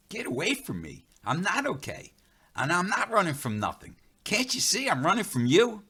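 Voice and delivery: scared voice cracking high; panicked. Acted. Narrator shouting at Running Bear in panic, high and frantic.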